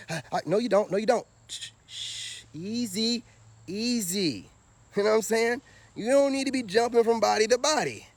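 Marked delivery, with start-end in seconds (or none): 1.5-4.5 hushed shushing, soothing someone down; gentle mock calming. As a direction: shh her softly like calming a spooked horse. Soothing an imagined woman.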